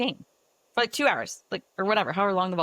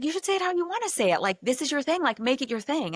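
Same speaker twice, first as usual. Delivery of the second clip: encouraging; 8 semitones higher than usual. Retold or imitated. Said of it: "he said it in the most beautiful way".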